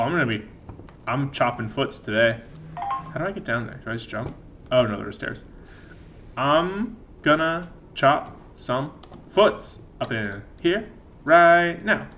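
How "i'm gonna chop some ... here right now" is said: gleeful menace. Pretend. Gleeful villain threat to goblins.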